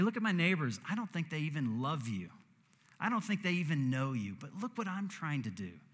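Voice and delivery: mock-indignant, I deserve better; imitating an angry complaint. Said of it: "'Cause I say".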